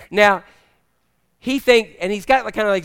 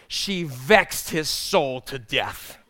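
weighty scripture quote; 5 semitones lower, 4 dB quieter, much slower than usual. Acted. King James quote read with weight.

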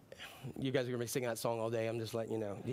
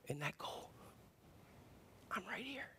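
soft voice of God; 7 semitones higher, 13 dB quieter than usual. Pretend. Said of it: "God's just going".

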